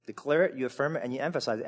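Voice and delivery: "Declare it, you affirm it, and you emphasize it" rattled off fast; quick run-through. Shown as a demonstration. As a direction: sweep through the three verbs quickly. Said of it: "how many times is it said?".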